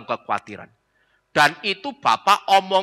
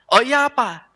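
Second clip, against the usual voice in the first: high, light Oh iya apa, acting unaware; feigned innocence; 9 semitones higher, 3 dB louder than usual. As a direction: play dumb in a high bright voice. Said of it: "sudah ngerti... pura-pura tanya". (pura-pura tidak tahu, nada tinggi)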